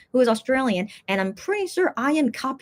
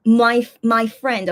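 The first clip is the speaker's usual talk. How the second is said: quoting Minhyuk; 3 semitones lower, 5 dB louder, much slower than usual. Retold or imitated. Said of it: "he says here".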